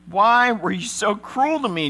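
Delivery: put-on high, loud anguished old father; moaning Jacob. Jacob reproaching his sons, high and loud. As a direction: cry out in reproach at your sons. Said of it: "Jacob moaned".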